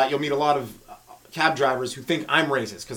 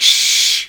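long, forceful "shh"; loud shush; 9 dB louder than usual. Acted. Shusher silencing someone's story, very loud. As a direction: shush louder than the talk you silence. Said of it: "it's usually louder than what you're saying".

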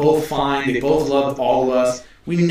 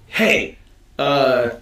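imitated confrontational greeting, pitched up; aggressive greeting; much slower than usual. Retelling how a stranger approached the friends, imitated aggressive greeting. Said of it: "he comes at us very aggressively".

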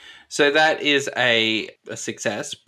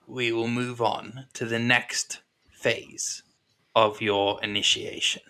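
measured Ethel character. Acted. Game master voices Ethel responding.

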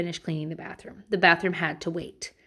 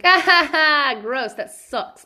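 laughing higher and louder then a slow gross; mock sympathy laugh; 6 semitones higher, 6 dB louder, slower than usual. Wife laughing down the stairs at husband. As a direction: laugh at husband stepping in poop. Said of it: "And I was like".

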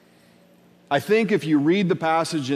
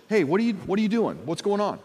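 quick, higher, friendly check-in; sincere question; 4 semitones higher, faster than usual. Acted. Friend offering to be part of helping, sincere asking. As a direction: ask lightly, genuinely wanting to help. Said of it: "a sincere question".

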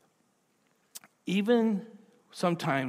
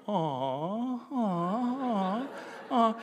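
crowd aww; 7 semitones higher, much slower than usual. Retold or imitated. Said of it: "everybody was like".

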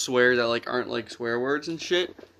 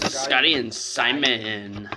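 "Scotty and Simon" drawn out slowly; slow repeat; much slower than usual. Shown as a demonstration. Answering a friend's teasing, repeating the names slowly. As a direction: spell it out slowly, deadpan. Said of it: "Why'd you emphasize on Simon?".

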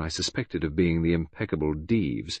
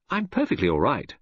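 slightly higher, mild protest; brisk Englishman; 4 semitones higher than usual. Acted. Rescued friend disengages from the embrace, mildly protesting. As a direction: brush off the fuss. Hastings reassures Poirot.

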